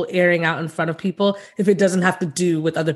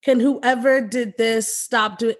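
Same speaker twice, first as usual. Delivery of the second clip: mocking passive aggressive; 4 semitones higher, slower than usual. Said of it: "And I hate the".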